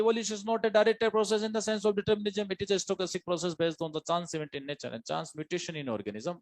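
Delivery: textbook line proclaimed high-pitched, easing down by the end; mock-cry the quote, starting high without real shouting; high-pitched, half-hearted crying out of a textbook; mock insistent proclamation. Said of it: "चिल्ला चिल्ला के बोलती है".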